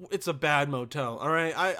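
ordinary delivery

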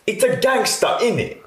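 very high, squeaky mock girl voice; mock gangster girl. Mimicking her friend's silly high quote, squeaky mock voice. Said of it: "Does she say".

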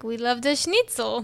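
put-on British person faking a German accent; half-hearted, joking German accent; mock German accent. British soldier pretending to be German, clumsy German accent. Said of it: "the British were using the accent".

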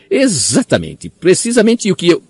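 high, frantic, rushing squeal; frantic squeak. A narrator's reading. Pettigrew frantically agrees.

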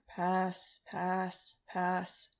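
bored. Acted. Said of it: "in a bored voice".

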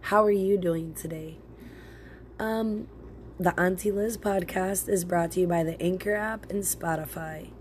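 congested, sick-sounding voice. Real, not acted. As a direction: talk through a cold. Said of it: "So my voice sounds like this because I'm sick".

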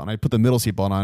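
ordinary talk

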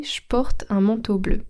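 „je porte” said as „shporte”; potoczne ściągnięcie. Shown as a demonstration. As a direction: turn „je” into sh before „porte”. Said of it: "son je qui devient che".

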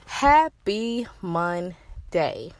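breathless after a power walk; out of breath. Real, not acted. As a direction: still catching breath. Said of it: "I might sound like I'm a little out of breath".

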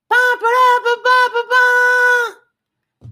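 high, loud imitated trumpet blasts; trumpet fanfare. Trumpets hail the new gardener, high and loud.

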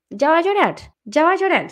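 high mocking singsong; mocking taunt. Mocking someone who is about to cry in a taunting singsong. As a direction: tease them that they are about to cry. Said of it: "También nos dicen".

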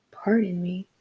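breathy whispered "Pardon me?" in disbelief; incredulous echo. Retold or imitated. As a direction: whisper "Pardon me?" as if you cannot believe it. Daughter echoes in disbelief.

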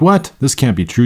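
high startled "What?" then a steadier disbelief; incredulous. Shown as a demonstration. Lotto winner checking numbers, high startled disbelief. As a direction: react like your lottery numbers came up. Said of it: "you'd be like".

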